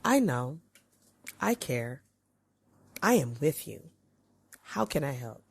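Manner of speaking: soft, caring reassurance; gentle and quiet, offering help; reassuring. Shown as a demonstration. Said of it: "we are trying to communicate".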